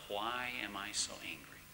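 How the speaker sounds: hushed whisper to himself; whispered self-question. Retold or imitated. Husband whispering to himself after slamming the door. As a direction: ask yourself under your breath. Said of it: "I asked myself".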